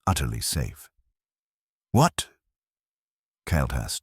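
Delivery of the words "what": high, loud stunned outburst; shocked. Acted. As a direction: blurt it out in disbelief. Stunned professor exclaims.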